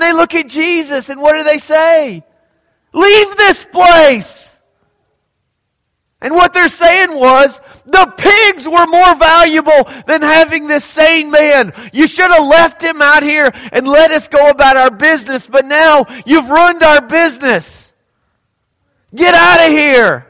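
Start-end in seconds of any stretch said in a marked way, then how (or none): 2.9-4.6 slow, higher, louder command to leave; angry shout. Acted. Townspeople driving Jesus away. 7.9-20.3 angry townsfolk. Acted. Townspeople's angry complaint voiced.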